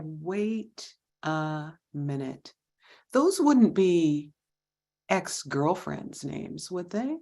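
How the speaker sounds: slow, drawn-out suspicious question. Retold or imitated. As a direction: stretch it out, narrowing in on him.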